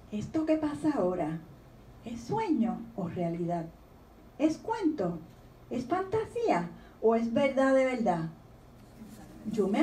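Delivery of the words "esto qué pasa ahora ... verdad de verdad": gentle storybook reading voice; reading a poem aloud. Acted. Author reading her poem to the audience, gently. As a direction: read the child's questions like a poem.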